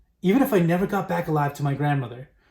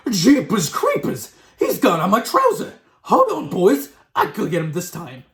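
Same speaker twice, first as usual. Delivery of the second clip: high, loud character yell, settling at the end; cook shouting; 4 semitones higher, 5 dB louder than usual. A narrator's reading. Cook with a mouse up his trousers, shouting. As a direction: yell in alarm to your mates. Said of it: "the cook shouted".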